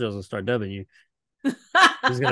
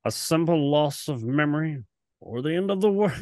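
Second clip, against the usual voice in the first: Orson Welles voice; 4 semitones higher than usual. Pretend. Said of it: "Orson Welles voice?".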